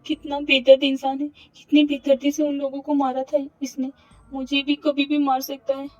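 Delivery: frantic Avni. Acted. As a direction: despair spilling out. Avni frantic alone in room.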